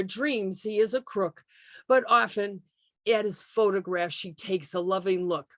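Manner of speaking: put-on measured recital of an old comic ballad; poem reading. Host reads a 1915 baseball poem to the Zoom audience, recital voice.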